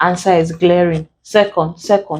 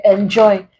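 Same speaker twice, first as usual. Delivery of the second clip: "enjoy" with the weight on "joy"; stress on second syllable. Shown as a demonstration. Teacher explaining the prefix rule, stress on the "joy" of "enjoy". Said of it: "we stress joy".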